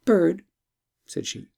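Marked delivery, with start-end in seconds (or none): 0.0-0.5 lightly voiced princess, higher; a hint of an eager young princess. Princess addresses bird.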